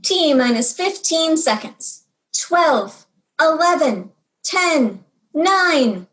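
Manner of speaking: a child playing mission control; launch controller. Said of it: "I got to be launch controller".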